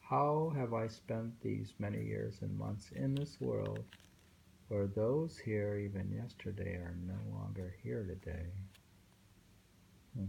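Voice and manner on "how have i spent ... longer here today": poem recital. Acted. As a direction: let each line of the poem settle, unhurried. Rereads poem on request.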